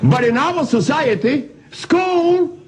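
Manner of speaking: laughing. Real, not acted. Laughing while making his point.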